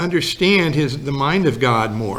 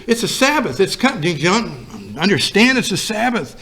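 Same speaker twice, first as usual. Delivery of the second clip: pitched up, pleading urgency; frantic; 4 semitones higher than usual. Retold or imitated. Wife pleading with friends about the Sabbath, mildly frantic. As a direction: make them understand, voice climbing. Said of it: "And she got frantic".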